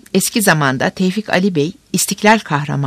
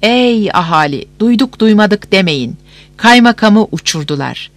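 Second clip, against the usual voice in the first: town crier; 4 semitones higher than usual. Acted. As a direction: call it out to the whole square.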